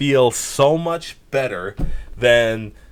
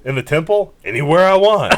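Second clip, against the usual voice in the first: louder, higher mock Regal; imitating William Regal; 3 semitones higher, 3 dB louder, faster than usual. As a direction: ham up the Regal line. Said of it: "most William Regalist thing you've".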